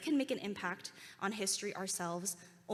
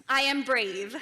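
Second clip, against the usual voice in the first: shouted affirmation for all to repeat; loud confident affirmation; 4 semitones higher, 11 dB louder, slower than usual. Shown as a demonstration. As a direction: call out loud, high and proud. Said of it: "your loudest, most confident voice".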